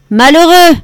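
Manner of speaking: put-on the old man exclaims in outrage at the sloppy tasting; outraged exclamation. A narrator's reading. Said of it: "s'exclama-t-il".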